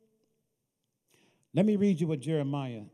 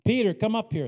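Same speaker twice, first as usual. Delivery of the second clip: calling out; 5 semitones higher, 5 dB louder than usual. Acted. Jesus calling disciples by name.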